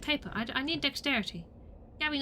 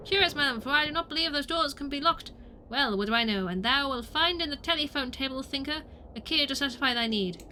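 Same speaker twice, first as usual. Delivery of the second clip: put-on lightly theatrical old-English orator; mock-formal olden-days delivery; archaic speaker; 4 semitones higher, 4 dB louder than usual. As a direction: declaim it like a stage thespian. Same archaic game figure.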